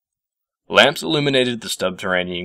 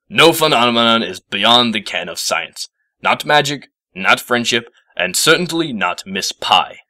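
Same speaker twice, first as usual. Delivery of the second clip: emphatic insistence; 4 semitones higher, 4 dB louder, slower than usual. Acted. Professor insisting forcefully.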